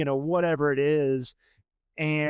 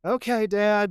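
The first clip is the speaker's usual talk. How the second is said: higher-pitched, put-upon compliance; reluctant son; 4 semitones higher, slower than usual. Retold or imitated. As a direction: mimic a kid grudgingly agreeing. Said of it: "you could hear it in his voice".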